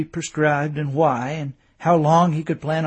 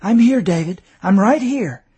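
wife's voice; 5 semitones higher, 8 dB louder than usual. A narrator's reading. Wife reassuring.

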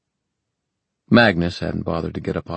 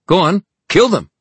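high, shouted urging; frantic order; 13 semitones higher, 8 dB louder than usual. Acted. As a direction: goad your hesitant followers to attack. Villain urges hesitant followers to kill.

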